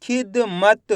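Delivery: खिदमत broken into खि-द-मत; sounded out. Shown as a demonstration. Teacher helps pupils find each letter, sounded out. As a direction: say खिदमत piece by piece, each consonant released. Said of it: "खिदमत बोलेंगे तो द".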